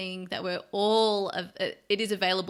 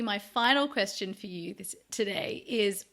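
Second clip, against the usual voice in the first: losing her voice, a bit strained; voice giving out. Real, not acted. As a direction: talk through a voice that's giving out. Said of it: "I'm losing my voice".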